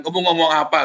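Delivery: high-pitched puzzled demand, lightly acted; retold demand. Child relaying the parent's question, retold demand. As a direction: imitate a parent demanding an explanation.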